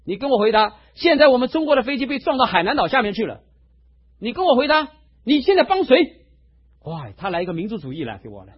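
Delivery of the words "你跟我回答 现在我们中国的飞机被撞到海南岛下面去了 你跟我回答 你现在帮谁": demanding, a little louder and higher; a heated old soldier pressing for an answer; retold angry challenge. 气头上的老师长逼问牧师站在哪一边，语气激动. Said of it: "正在气头上".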